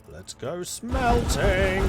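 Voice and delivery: high, drawn-out cry; excited announcement. Real, not acted. Player heads off to the smithy, excited announcement. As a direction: stretch it out like a slow, high fanfare. Announces smelting with mock fanfare.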